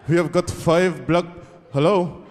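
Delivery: lightly acted ransom caller; terrorist on phone. Terrorist calling the White House about hostages, lightly acted caller. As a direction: start the demand, then check the line. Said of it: "They called the White House and said".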